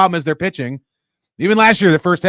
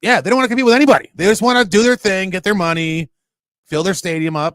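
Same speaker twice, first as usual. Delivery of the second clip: usual speaking voice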